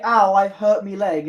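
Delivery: mock-injured complaint in Brummie; Brummie accent. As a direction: put on a light Brummie accent. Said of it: "in a Brummie accent".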